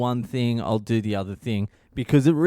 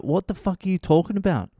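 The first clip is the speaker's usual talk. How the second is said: higher-pitched indignant comeback; 4 semitones higher than usual. Retold or imitated. Husband defending himself to yelling wife, indignant. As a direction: argue back, mildly exasperated, in a retold quarrel.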